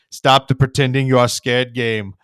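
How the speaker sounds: loud, flat stern order; loud German businessmen telling him to quit; stern scolding. Retold or imitated. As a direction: tell him off firmly.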